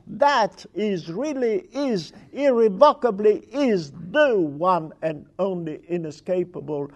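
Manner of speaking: building to loud, hammering emphasis; emphatic reading. Shown as a demonstration. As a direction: pound home each phrase as the one ultimate question.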